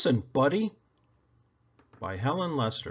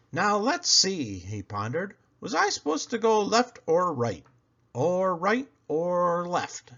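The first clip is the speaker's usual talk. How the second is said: Buddy pondering; 6 semitones higher than usual. Acted.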